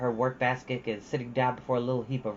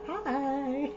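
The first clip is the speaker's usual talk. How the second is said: real laugh; 11 semitones higher than usual. Real, not acted. Reader notices someone watching.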